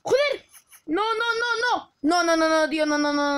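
high, loud desperate no no no; panicked shouting. Real, not acted. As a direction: yell in alarm as the fight turns. Losing the fight, yelling.

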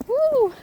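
loud high "woo"; happy whoop. Real, not acted. Rider out in front of the herd, loud happy whoop.

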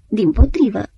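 insistent but calmer repetition; protesting. Acted. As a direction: settle the objection back down. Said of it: "protesta Antim".

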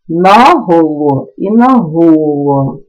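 «наголо» said twice, first stressed on the first syllable, then on the last; two stress variants. Shown as a demonstration. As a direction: contrast both stresses of «наголо». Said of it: "мають подвійний наголос". (подвійний наголос у слові «наголо»)

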